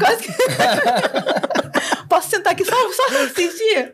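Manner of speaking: high, giggling through the joke; laughing. Real, not acted. Joking to friends she'd just sit and watch, laughing.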